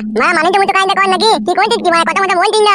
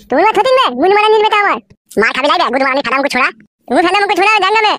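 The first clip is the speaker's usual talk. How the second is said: angry insults; 3 semitones higher than usual. Acted. Son hurls insults in quarrel.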